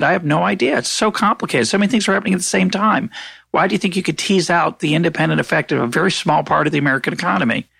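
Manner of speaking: exasperated retelling. Retold or imitated. Retelling his exasperated reply.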